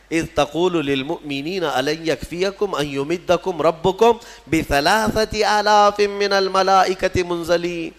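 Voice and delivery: measured Arabic recitation with long-held vowels; Quran recitation. Acted. Preacher quotes the Quran to the congregation, reciting slowly. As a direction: recite the verse, slowing and stretching towards its end. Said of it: "قرآن میں".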